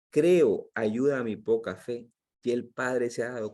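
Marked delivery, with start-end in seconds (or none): 0.1-2.1 loud cry. Acted. Father's cry retold.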